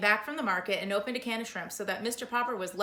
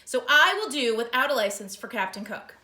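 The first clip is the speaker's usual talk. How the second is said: outraged; 7 dB louder than usual. Acted. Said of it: "now completely outraged".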